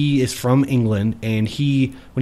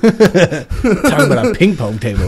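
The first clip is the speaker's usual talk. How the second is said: quoting, laughing; 5 semitones higher, 5 dB louder than usual. Retold or imitated. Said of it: "quoting the customer, laughing".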